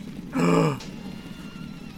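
long high mock gasp. Player gasping at news of Phil's feather, mock shock. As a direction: draw in a shocked breath.

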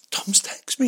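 excited gasp. Retold or imitated. Receiving a text from Tom Hardy, gasping in excited whisper. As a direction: gasp then a high breathless whisper.

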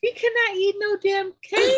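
high, loud exasperated yell; mock shout. Mother scolding friends over the cake, a loud mock yell. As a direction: holler it out in disbelief. Retorting about the baby cake.

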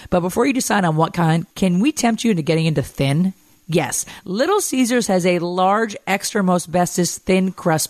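bright radio spot delivery; ad read. Acted. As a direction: sell the pizza deal with energy. Host reads pizza ad.

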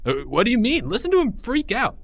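high, eager, incredulous chatter; excited kids. Acted. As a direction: schoolboys egging each other on. Friends revel in the screaming.

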